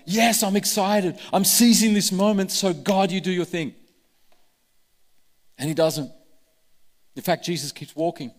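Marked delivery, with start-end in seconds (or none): 0.1-3.7 mock excitement. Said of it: "we like".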